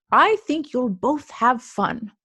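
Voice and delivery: slow, gentle grandpa. Acted. Grandpa reassuring Mouse on the walk home, slow. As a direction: reassure her like a kind grandpa.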